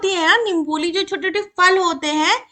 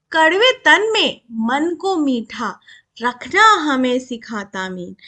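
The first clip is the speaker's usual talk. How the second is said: poem recitation; 3 semitones lower than usual. Shown as a demonstration. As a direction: stretch each word out in measured verse. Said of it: "चलो अब कविता पढ़ते हैं".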